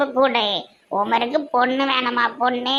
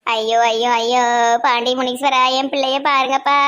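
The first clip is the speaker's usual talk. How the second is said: wailing lament. Acted. Grandmother wails, prays to deity.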